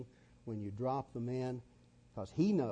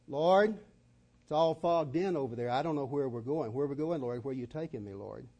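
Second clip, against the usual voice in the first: anxious pleading; 3 semitones higher, 9 dB louder than usual. Retold or imitated. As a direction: cry out unsure where you're headed. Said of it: "That's called fear".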